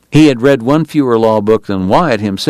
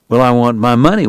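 blunt; 2 semitones higher than usual. Acted. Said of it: "Wyatt said bluntly, annoyed by Bat's tone".

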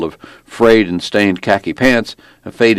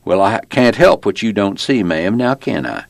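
Virginia traffic cop laying down the law; belligerent small-town cop; 2 semitones higher than usual. Acted. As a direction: play a folksy, self-important lawman, pitched a little up. Narrator plays the small-town cop.

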